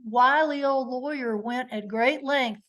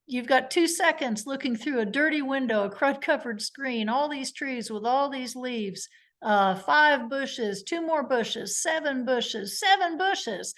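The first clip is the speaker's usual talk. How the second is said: Vinny; 3 semitones higher than usual. Retold or imitated. Lawyer summing up the obscured view, lightly imitated cross-examiner. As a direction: count off each obstacle, then land the question. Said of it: "the way Vinny did".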